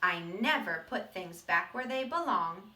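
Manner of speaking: a gruff little seed telling his own story; bad seed voice. Teacher reading to the class as the seed, gruff and proud.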